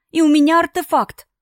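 high and loud, almost a shout; frantic cry. A narrator's reading. Daughter frantically telling father about artifact, loud. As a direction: blurt it out in panic.

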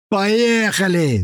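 high, slow, drawn-out shout; gleeful yell. A narrator's reading. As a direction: cut the rope with a whoop. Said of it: "заорали оба". (протяжный радостный крик)

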